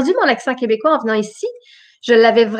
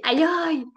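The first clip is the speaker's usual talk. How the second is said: mock-hurt "ayoye", pitched higher and softer; Québécois cry of pain; 5 semitones higher, 6 dB quieter than usual. Shown as a demonstration. Showing what she says when hurt, Québécois yelp. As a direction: demonstrate a drawn-out Québécois "ayoye". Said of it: "quand je me fais mal".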